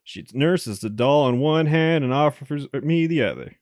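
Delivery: even visual-novel reading voice; story narration. Acted. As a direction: narrate the game text steadily. Reads game narration aloud.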